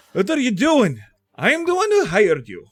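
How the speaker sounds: high, loud outraged employer; indignant protest. Acted. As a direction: object loudly, pitched well up. Aloysia protests at being grabbed.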